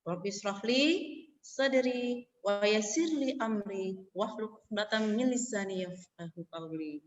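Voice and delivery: slow, reverent recitation of the verse; Arabic prayer recited calmly; Quranic recitation. Shown as a demonstration. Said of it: "Gimana bunyinya?".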